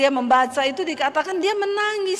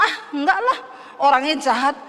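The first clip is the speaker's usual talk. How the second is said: dismissive retort; faster than usual. Retold or imitated. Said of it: "Kita ngomong".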